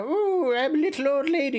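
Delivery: put-on high, quick old lady voice; little old lady voice. Shown as a demonstration. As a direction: chirp it like a sweet granny. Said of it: "I go for the, the higher".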